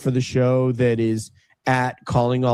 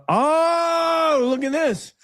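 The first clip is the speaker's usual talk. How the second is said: excited squeal; 5 semitones higher than usual. Real, not acted. Excited over helicopter video.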